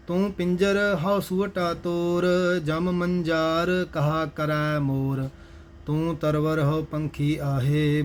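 measured Gurbani chant-reading with drawn-out line endings; scripture recitation. Acted. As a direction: recite each verse slowly and evenly. (Gurbani ਦਾ ਸਹਿਜ ਪਾਠ)

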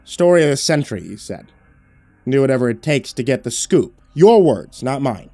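a hint of angry protest; indignant reporter. A reporter throws his boss's words back, indignant.

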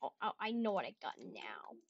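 soft whispered aha; whispered realisation. Real, not acted. Gamer seeing his prize, whispered realisation.

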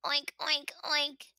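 lightly voiced oink oink oink; a mild grunting oink like the pigs. A narrator's reading. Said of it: "Milo hears as he passes".

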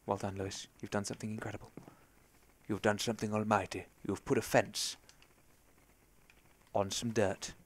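hushed ironic self-congratulation; quiet self-praise. Pretend. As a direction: praise yourself in a hush, tongue in cheek. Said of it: "I'm gonna be quiet".

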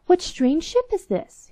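high, slow astonished call; crying out. Acted. King at the window sees the golden ship, astonished cry. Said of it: "he cried".

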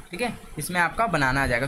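ordinary delivery

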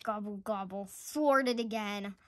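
droop as the plan fails again; groaning. Acted. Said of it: "groaned Turkey".

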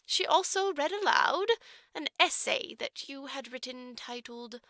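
lightly voiced orphanage matron, measured and formal; a hint of a prim matron choosing her words; stern matron. Matron tells Jerusha about the trustee, prim and formal.

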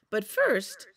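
a sleepy pup asking for a song; Little Wolf. Acted. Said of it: "said Little Wolf".

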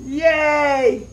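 loud, bright cheer of relief; happy yay. Real, not acted. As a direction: celebrate out loud. Bolt finally catches.

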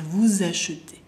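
"Vous achetez" joined with a z; demonstrated liaison. Shown as a demonstration. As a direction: let the s of "Vous" buzz into "achetez". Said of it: "escucha la diferencia". ("Vous achetez" enlazado con sonido z)

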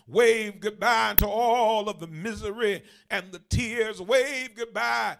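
rhythmic, building preacher's refrain; impassioned preaching. Real, not acted. Preacher urging the church to wave goodbye to troubles, impassioned. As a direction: preach it with rising fervor to a shouted finish.

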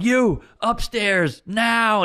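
slow, firm command; stern dad order. Retold or imitated. Military dad ordering the girlfriend upstairs, stern. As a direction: clip out an order like a soldier. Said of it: "He's like".

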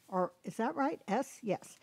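ordinary talk, nothing marked

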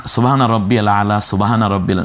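সুবহানা said quickly like সোবানা; wrong pronunciation. Shown as a demonstration. Teacher imitates a hurried prayer recitation, slurred. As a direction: run সুবহানা রব্বিয়াল together carelessly. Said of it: "না, না, সোবানা".

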